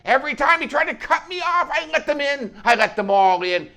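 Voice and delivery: very high, loud, frenzied shouting; manic, full-volume outburst; crazy madman rant. Acted. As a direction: yell it out like a raving fanatic. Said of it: "he sounded like a fanatic, crazy madman".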